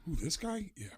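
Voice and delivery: menacing mock Pacino; Al Pacino impression. Pacino needling Baldwin, in a Pacino impression. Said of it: "Pacino's looking, going".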